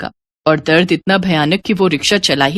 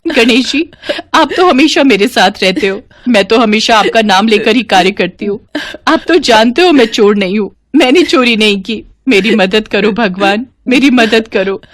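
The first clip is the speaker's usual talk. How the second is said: crying prayer; 3 semitones higher than usual. Acted. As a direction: beg the god for help through tears. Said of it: "Suman jail में बहुत रो रही थी". (रोते हुए भगवान से प्रार्थना)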